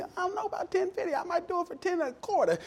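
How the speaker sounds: very high, hammed-up country accent; grandpa's country accent. Mister Charlie haggling with a customer, exaggerated country accent. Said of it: "he had this country accent".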